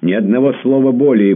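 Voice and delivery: high, loud imperious shout; commanding shout. A narrator's reading. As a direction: silence him with a command. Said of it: "повелительно крикнула она".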